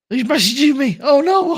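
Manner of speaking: mock whine. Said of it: "Boo goes".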